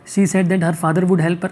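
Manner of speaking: slow, careful read of the right answer; correct option read slowly. Shown as a demonstration. Teacher reads the right option to the class, slowly. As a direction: lay it out slowly, word by word. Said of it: "अब देखो क्या करना है".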